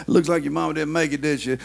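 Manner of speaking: jeering, laughing mourner-mocker; mocking laugh. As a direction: laugh at a grieving son. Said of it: "comes walking up and says".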